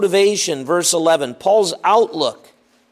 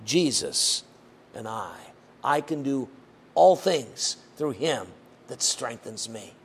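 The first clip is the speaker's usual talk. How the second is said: poem recitation; 3 semitones lower than usual. Acted.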